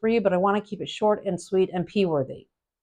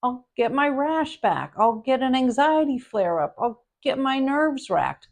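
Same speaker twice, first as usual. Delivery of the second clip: Evan-style setup; 5 semitones higher, slower than usual. Shown as a demonstration. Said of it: "If Evan's style was used".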